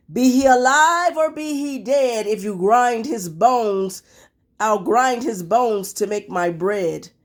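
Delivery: lightly voiced giant, heavy and deliberate; a touch of giant. Giant threatening the hidden boy, mildly menacing. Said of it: "he said".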